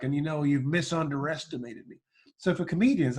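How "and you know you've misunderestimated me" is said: George W Bush impression. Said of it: "He'd say things like".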